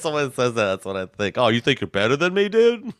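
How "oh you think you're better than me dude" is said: high mocking lisp voice; lisping impression. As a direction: tease with a silly lisp. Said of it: "Why do I sound like a mix of Max Fine and Rojo Perez in your impression?".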